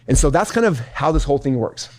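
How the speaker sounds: winded after a fast stretch; out of breath. Real, not acted. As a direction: talk while catching your breath. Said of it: "I'm out of breath from that one".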